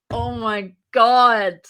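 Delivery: drawn out in shock; stunned. Retold or imitated. Seeing her own face on the pitch slide, slow stunned gasp. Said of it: "and I was just like".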